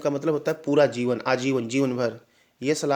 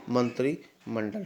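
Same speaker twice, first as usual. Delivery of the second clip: slow model word; 3 semitones lower, 5 dB quieter, slower than usual. Shown as a demonstration. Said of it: "छोटी की मात्रा होता है".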